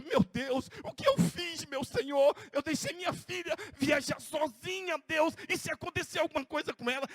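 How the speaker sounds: pleading, voice rising in distress; anguished prayer. Retold or imitated. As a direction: cry out to God in fear for a daughter. Pastor relives anguished prayer. (oração angustiada, suplicante)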